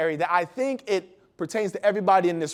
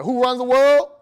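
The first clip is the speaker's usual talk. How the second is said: louder call-out to the ladies; rallying the crowd; 3 semitones higher, 6 dB louder than usual. Real, not acted. Speaker rallies the ladies in the room, loud call. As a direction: hype the audience with a call. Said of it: "for my ladies in here".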